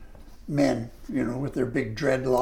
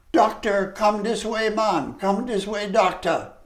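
higher market-stall calls of "Doctor" and "come this way"; vendors calling out; 7 semitones higher, 3 dB louder than usual. Retold or imitated. Vendors hail the stranger, higher calling voice. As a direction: call him over like a Jamaican stallholder.

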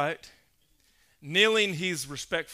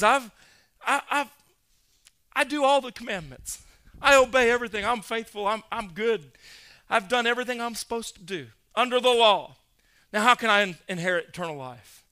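eager excited man; 3 semitones higher, 4 dB louder than usual. Acted. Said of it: "he's all excited".

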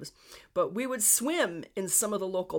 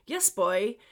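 amateur Newfoundland accent, said louder; Newfie accent; 5 dB louder than usual. Shown as a demonstration. Podcaster repeating a phrase to explain it, attempted Newfie accent. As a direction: pronounce it as an imitation Newfie would. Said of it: "trying to do a Newfie accent".

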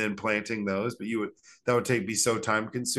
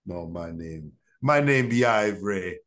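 mock Jamaican accent; 3 dB louder than usual. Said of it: "crazy Jamaican accent".

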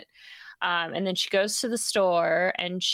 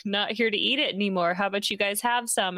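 higher, sugary pretend worry; lightly raised mock-innocent offer; fake innocent wife; 3 semitones higher than usual. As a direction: coax the police like a sweet hostess. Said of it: "And then she's like".

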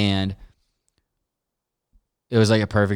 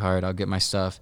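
subdued, resigned imitation; retold defeat; 3 semitones lower, 4 dB quieter than usual. Passenger giving up on arrival at rehab, defeated. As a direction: give in quietly, as if beaten. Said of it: "she just looks defeated".

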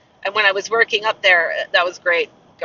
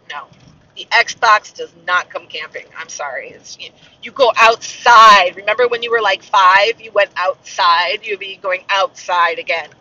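firm parent; 6 dB louder than usual. Retold or imitated. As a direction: lay down the law, leaning on each point. Parent's retold scolding of child.

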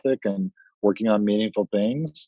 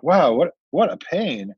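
mock dismay; 7 semitones higher, slower than usual. Retold own reaction.

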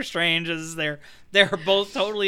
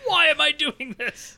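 Kenneth Branagh; 6 semitones higher than usual. Acted. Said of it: "I would like to present you Kenneth Branagh".

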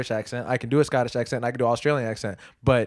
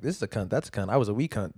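lightly voiced Australian accent, comes out Irish; offhand, slightly low mock-Australian; casual Australian impression; 4 semitones lower, 4 dB quieter than usual. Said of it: "they're just like".

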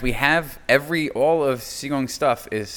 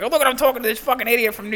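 mock bragging troll; 11 semitones higher, faster than usual. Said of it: "Be like".

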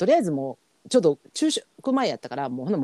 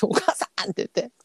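retold call; 7 semitones higher than usual. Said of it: "私が叫び声で".

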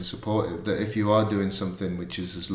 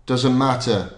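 put-on Scottish accent; 4 semitones higher, 5 dB louder, slower than usual. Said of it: "I'm gonna do a Scottish accent".

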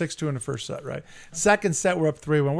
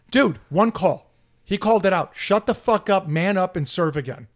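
forceful, mildly heated order; retold angry telling-off; 3 dB louder than usual. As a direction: re-enact confronting an opponent across the net. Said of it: "Like that, right?".

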